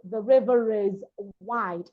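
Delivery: both R's sounded in "river is"; linking R. Shown as a demonstration. Coach showing the linking rule, both R's enunciated in "river is". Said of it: "now I'm enunciating the two".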